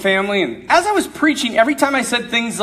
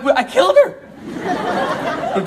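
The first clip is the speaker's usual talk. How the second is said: deadpan dismay; 3 semitones higher, much slower than usual. Retold or imitated. Girl suddenly goes still.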